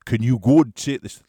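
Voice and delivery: badly attempted South African accent; failed South African impersonation. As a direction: have a shaky go at South African. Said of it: "I won't do the voice 'cause I can't do it".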